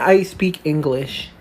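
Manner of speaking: fake American accent. Kid insists slowly.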